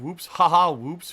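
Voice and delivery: laughing through the words; startled little laugh; nervous laugh. Real, not acted. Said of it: "That's pretty funny".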